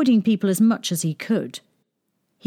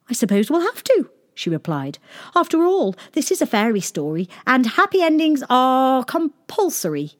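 higher, matter-of-fact princess voice; a breezy fairy-tale princess; cartoon princess; 7 semitones higher than usual. Princess character voice.

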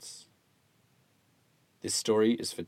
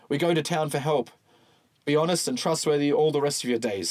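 character voice; 5 semitones higher, 3 dB louder than usual. Acted. Isaac Walton's parting speech.

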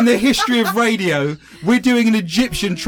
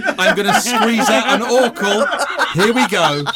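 mock straining; 4 semitones higher than usual. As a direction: pretend straining, laughing. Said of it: "I'm clenching".

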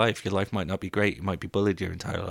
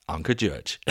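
cracking up on the punchline; punchline dissolving into laughs; laughing; 3 semitones lower, slower than usual. Real, not acted. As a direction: deliver the name through real laughter. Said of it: "I mean, I'm laughing".

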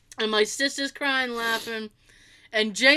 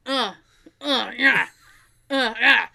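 short mock grunts of missed swats; imitated effort grunts; 3 dB louder, slower than usual. Daughter mimics dad missing the light switch, effort grunts. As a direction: imitate a drunk straining at each swat.

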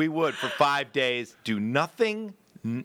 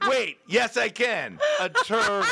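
mock excited realization; 7 semitones higher than usual. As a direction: exclaim it higher and higher over a treat. Acts out sudden craving realization.

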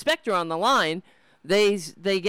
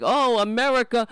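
mock pundit. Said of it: "He's like".

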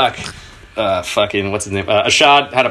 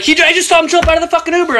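high, fast mock girl voice; woman rushing in to report the escape, high and fast; imitating her; faster than usual. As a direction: rattle it off high and quick like her. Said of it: "She's like".

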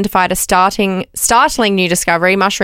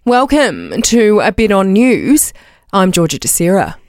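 slow, formal news intro; newsreader voice; 3 semitones lower than usual. Acted. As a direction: read it like the evening news. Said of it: "she does it in her newsreader voice".

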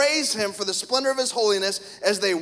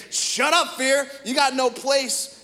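defiant rebuke, pitched up; raised-pitch scolding of an unseen foe; mock yelling at fear; 4 semitones higher, slower than usual. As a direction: tell fear off, half-yelled. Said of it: "you just need to yell at it".

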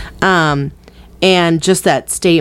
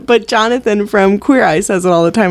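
ordinary talk

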